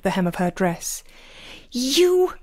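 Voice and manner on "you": high, drawn-out outraged screech; shrill-pitched cry of outrage. A narrator's reading. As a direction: screech it in affronted shock. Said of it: "she screeched".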